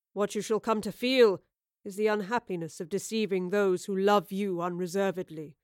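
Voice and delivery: a hint of a wounded old man confessing; older Oscar, heartfelt. Older Oscar to his younger self, earnest confession.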